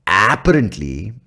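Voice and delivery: slow Indian-English "apparently", leaning on the first syllable; Indian accent. Shown as a demonstration. Podcaster showing the word's ring, slow Indian accent. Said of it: "the Indian accent imbibes or imbues".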